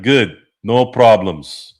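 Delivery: light impression of a deadpan action star; movie tough guy. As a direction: play the unbothered action hero. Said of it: "he's like".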